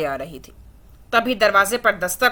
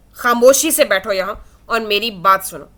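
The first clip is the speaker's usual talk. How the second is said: harsh tone. Acted. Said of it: "حدید سخت لہجے میں بولا".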